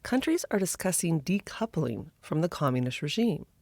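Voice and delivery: measured news anchor delivery; news read. Acted. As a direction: read it like a news headline intro. Scripted news-style intro.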